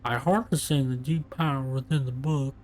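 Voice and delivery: lightly voiced lazy stoner. Shown as a demonstration. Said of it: "I don't have a good stoner voice".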